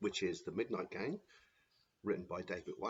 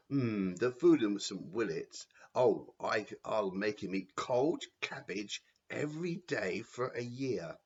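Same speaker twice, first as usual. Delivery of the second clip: louder, gleeful matron plotting; scheming Matron; 6 dB louder than usual. Acted. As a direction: relish the punishment.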